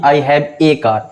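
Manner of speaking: I have a car with a said as ay; the wrong full ay in a. Shown as a demonstration. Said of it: "ना कि". (a को ए बोलना, गलत)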